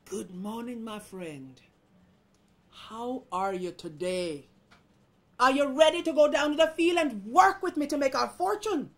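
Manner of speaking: measured politeness swelling to loud urging; rooster testing friend. Acted. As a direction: greet pointedly, then project the question. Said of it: "how you do with your friends".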